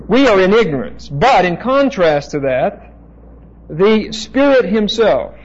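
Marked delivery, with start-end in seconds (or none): 3.7-5.4 Spirit stressed, slowed and drawn out; "the Spirit Himself" said slowly, weight on "Spirit"; emphasis on Spirit Himself. Shown as a demonstration. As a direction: lean hard on "Spirit Himself". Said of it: "there you have an emphasis".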